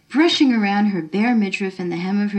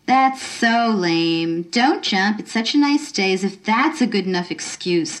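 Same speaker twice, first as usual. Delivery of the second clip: sneering. Acted. Girl mocking the woman's reasons, sneering. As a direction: mimic her words back with contempt. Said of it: "Carolyn sneered".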